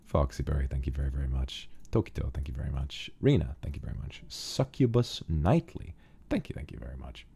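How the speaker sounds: soft, breathy-quiet reading of names; whispered thanks. Real, not acted. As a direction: hush it down, almost a whisper.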